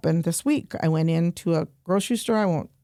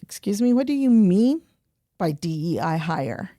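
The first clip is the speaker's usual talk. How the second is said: retold indignant challenge, raised at first; mad, changed tone. Customer challenging cashier over DEI remark, mad. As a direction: confront them, voice lifting then dropping. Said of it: "my voice changes immediately, my tone".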